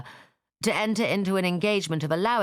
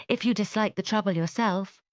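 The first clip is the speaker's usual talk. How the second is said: gentle offer; 6 semitones higher than usual. Acted. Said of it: "said Jane".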